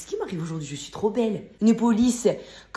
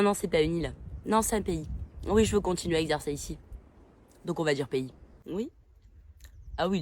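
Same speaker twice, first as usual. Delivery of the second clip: smug tour guide; 2 semitones lower, 7 dB quieter than usual. Acted. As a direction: play a smug guide who thinks he knows everything. Plays a tour guide in Corsica.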